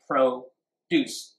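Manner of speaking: proDUCE, the verb, split with DUCE stressed; stress on the second syllable. Shown as a demonstration. English teacher asking where the stress is, stressing DUCE. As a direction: break "Produce" in two and lean on DUCE. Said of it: "Where is the stress?".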